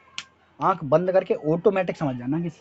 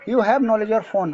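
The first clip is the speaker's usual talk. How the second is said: slow modelling; 5 semitones higher, 5 dB louder, much slower than usual. Shown as a demonstration. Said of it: "teacher modelling English".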